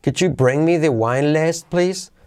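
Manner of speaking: high rise on the final "please?"; question tune. Shown as a demonstration. Teacher showing students the rising tune of a polite request. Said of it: "entonación, hey".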